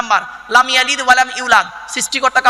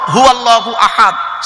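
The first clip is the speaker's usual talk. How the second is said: Quranic recitation; slower than usual. Acted. Quran verse quoted in sermon.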